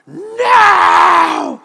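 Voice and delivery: high, loud shouted NO; kid's flat refusal. Retold or imitated. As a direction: bark it like a stubborn four-year-old. Son refuses to share mint.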